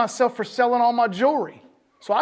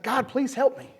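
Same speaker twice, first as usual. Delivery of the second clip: higher-pitched mock plea to God; retold cry for help; mildly acted crying out; 5 semitones higher than usual. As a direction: lightly act out a man praying for rescue. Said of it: "he's crying out to God".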